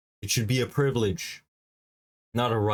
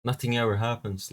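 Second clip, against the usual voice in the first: mock denier. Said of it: "People always say".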